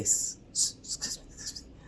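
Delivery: barely audible mock whisper; imitated whisper. Imitating an elderly gentleman approaching her, furtive whisper. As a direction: hiss it under the breath, almost soundless. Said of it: "are you whispering?".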